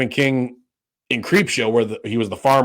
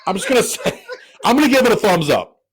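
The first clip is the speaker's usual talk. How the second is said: higher-pitched, laughing verdict; amused, laughter breaking into the words; laughing through words; 9 semitones higher than usual. Real, not acted. Laughing while giving his rating.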